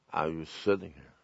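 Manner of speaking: low, very soft, deflated mumble; pathetic. Acted. Believer beside shouting crowds, pathetic and limp. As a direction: drop to a feeble, passive admission. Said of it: "Isn't that pathetic?".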